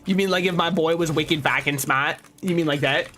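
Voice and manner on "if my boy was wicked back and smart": light Boston accent, dropped r's; a quick put-on Boston accent; a casual Boston accent demo. Shown as a demonstration. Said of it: "sound with a Boston accent".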